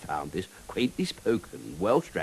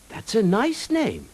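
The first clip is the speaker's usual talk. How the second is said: straight-faced; 11 semitones higher, slower than usual. Acted. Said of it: "straight-faced".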